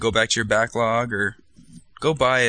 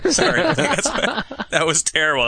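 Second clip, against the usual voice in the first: laughing; 9 semitones higher, slower than usual. Real, not acted. Laughing at a bad joke.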